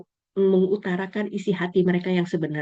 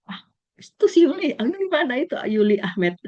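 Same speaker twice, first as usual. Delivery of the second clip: calling out; 7 semitones higher than usual. Retold or imitated. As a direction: call across the campus, teasing. Classmates calling out to her.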